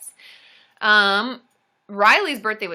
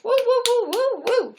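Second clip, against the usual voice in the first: cheering; 10 semitones higher than usual. Real, not acted. Cheering again.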